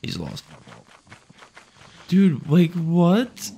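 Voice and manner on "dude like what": incredulous. Real, not acted. Friend got lost.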